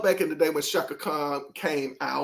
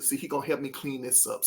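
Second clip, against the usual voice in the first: a soft muttered aside, half to herself; mild quiet aside; 2 semitones lower, 7 dB quieter than usual. Real, not acted. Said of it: "See, my Lord".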